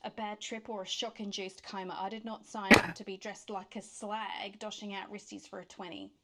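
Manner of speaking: indignant Australian rant; Australian accent. Acted. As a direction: complain in a put-on Australian accent, punching words. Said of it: "unconvincing accent the whole time".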